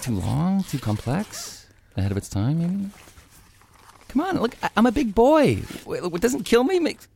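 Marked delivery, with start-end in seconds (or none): 4.1-7.1 put-on raised, insistent big-boy bluster; bluffing bravado. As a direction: coax the news out, pitched high. Braces himself for bad news.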